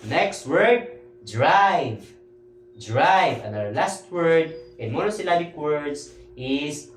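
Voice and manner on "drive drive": "drive" stretched on the "eye" vowel, falling; long I sound. Shown as a demonstration. Teacher modelling the next word, emphatic long I. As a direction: model "Drive" twice, each apart and falling. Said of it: "you have to pronounce it as I".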